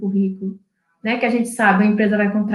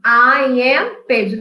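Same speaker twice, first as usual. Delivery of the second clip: slow model answer; much slower than usual. Shown as a demonstration. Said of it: "Vamos lá ver a resposta".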